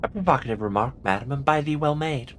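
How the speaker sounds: put-on courtly Early Modern English accent; Shakespearean-era accent. Lodger's landlady answers a remark in a Shakespearean accent. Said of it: "closer to the accent".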